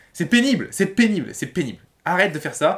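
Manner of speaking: annoyed, getting worked up. Telling the listener to stop saying they are tired, getting irritated. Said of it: "quand je dis c'est pénible en m'énervant".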